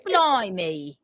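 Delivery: mock Cockney exclamation; trashy English accent. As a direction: play a trashy English guy. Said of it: "trashy English person guy".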